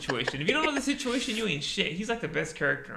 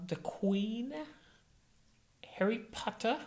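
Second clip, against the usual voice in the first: higher-pitched mock British lilt; put-on British accent, lifted in pitch; 8 semitones higher, slower than usual. Friend trying out British names, high British accent. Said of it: "like, a British accent".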